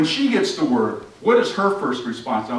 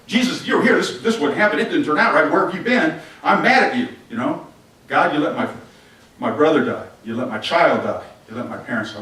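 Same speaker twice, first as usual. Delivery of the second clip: letting him have it; 2 semitones higher, 6 dB louder than usual. Retold or imitated. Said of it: "She's letting him have it".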